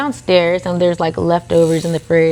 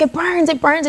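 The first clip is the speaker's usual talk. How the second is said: mock complaining; 9 semitones higher than usual. Burning injection in ambulance.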